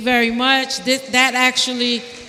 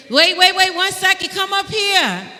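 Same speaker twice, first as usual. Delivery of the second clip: calling out; 6 semitones higher, 4 dB louder than usual. Real, not acted. Chair stops someone calling out.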